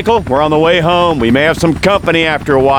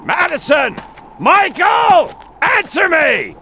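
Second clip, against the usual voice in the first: calling out; much slower than usual. Acted. Calling out for family.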